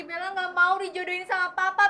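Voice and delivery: normal talking voice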